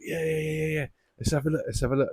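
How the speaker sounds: put-on high, eager kid voice, pushing to see; the boy who can't wait to look inside; excited little kid. Youngest son begging his dad to open the boxes, high and eager.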